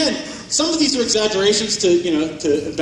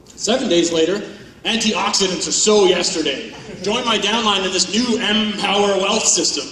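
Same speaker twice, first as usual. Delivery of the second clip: loud, hammed-up sales pitch; mock recruiting pitch; 4 dB louder than usual. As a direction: sell the new wealth system like an overeager recruiter. Mocking MLM recruitment pitch.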